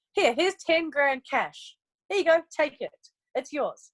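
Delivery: slow, deliberate handing over; generous giveaway. Pretend. Company handing executives cash, slow and generous. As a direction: play the company gifting cash.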